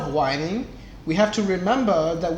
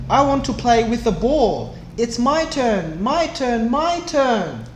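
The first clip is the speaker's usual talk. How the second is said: put-on higher, nagging little-boy whine; the boy whining for the ball, higher and nagging; whining child; 5 semitones higher, 3 dB louder than usual. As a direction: whine it like a kid who wants his turn. Boy whines for his turn.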